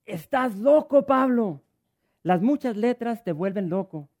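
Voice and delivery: Festo shouting, high and loud, slow. Acted. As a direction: bellow the accusation across the court. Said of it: "Festo a gran voz dijo".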